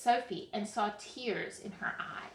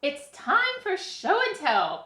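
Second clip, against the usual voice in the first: louder, higher announcement; calling out; 8 semitones higher, 8 dB louder than usual. A narrator's reading. Teacher calling class to show and tell, calling out. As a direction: call the class to attention. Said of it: "called Miss Stewart".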